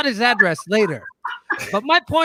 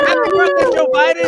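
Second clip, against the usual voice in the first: loud shout; 8 dB louder, faster than usual. Acted. Shouted sign-off gag.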